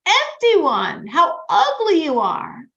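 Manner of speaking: loud, high, slow rebuke; harsh words. Retold or imitated. Rebbe rebukes a spiritually empty man to wake him, harshly. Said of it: "he said very, very harsh words to him".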